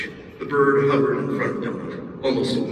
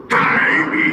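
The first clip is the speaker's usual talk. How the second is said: forlorn call; 6 dB louder than usual. Acted. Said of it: "Prison Pocket called forlornly".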